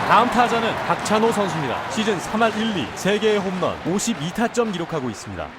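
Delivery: echoing stadium announcer. Acted.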